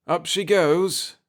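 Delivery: slow, tense lift rising at the end; "up she goes" slow with a hopeful rise on goes. A narrator's reading. Pete to his son as the ship lifts, tense. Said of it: "said Pete tensely".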